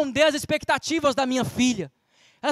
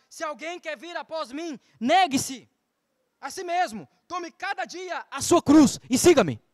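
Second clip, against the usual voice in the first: scripture reading; slower than usual. Acted. Reads Christ's words.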